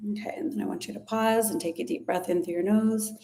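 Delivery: whispering. Acted. Guided breathing cue.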